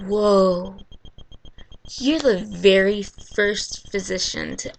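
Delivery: loud mock-impressed "whoa", easing off at the end; sarcastic amazement. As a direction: pretend to be astounded by an obvious idea. Mock amazement at doctor's obvious idea.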